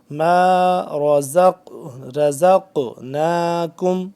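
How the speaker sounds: hard buzzing ز in slow chanted رزق; firm za. Shown as a demonstration. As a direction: press firmly on the ز of رزقناکم. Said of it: "اس کو سختی سے".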